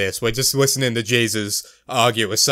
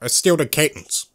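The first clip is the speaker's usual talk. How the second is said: Barack Obama. Acted. Comic showing how Obama's cadence goes, Obama impression. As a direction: lightly imitate a president's careful cadence. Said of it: "able to do Barack Obama".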